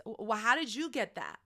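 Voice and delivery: mildly acted resentful questioning; a touch of jealous disbelief; envious friend. Friend questioning your promotion, envious. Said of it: "But then they're envious".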